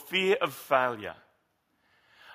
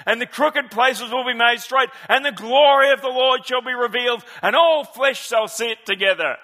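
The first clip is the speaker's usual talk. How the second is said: put-on higher, louder Southern preacher accent; Martin Luther King accent; 7 semitones higher, 8 dB louder than usual. A pastor quoting the speech in a Southern preacher accent, louder. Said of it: "I just want to do his accent".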